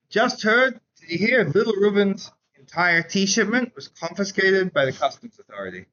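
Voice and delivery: mock breathless market gossip; excited gossip. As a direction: rush in with the hot news.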